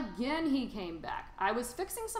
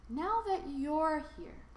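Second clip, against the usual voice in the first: earnest; 7 semitones higher than usual. A narrator's reading. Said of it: "says the Onceler".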